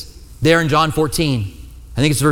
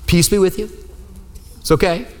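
reassuring; 4 semitones higher than usual. Retold or imitated. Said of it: "some of them got startled".

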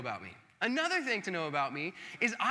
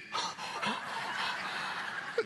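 delighted gasp; 3 semitones higher, 3 dB quieter than usual. Retold or imitated. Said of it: "genuinely impressed".

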